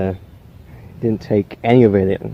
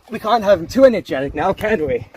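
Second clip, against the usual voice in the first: higher, quick taunting singsong; sinister singsong; 9 semitones higher than usual. Acted. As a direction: tease it like a creepy villain. Villain mocking the penguins.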